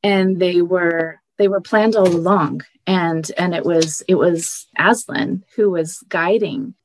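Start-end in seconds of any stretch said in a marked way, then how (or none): 0.0-5.7 moved, near tears. Real, not acted. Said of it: "once you stop crying".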